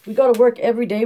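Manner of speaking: put-on a boy asking anxiously, a bit fast; child's question. A narrator's reading. Winfield asks his mother anxiously, childlike voice. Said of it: "Winfield asked".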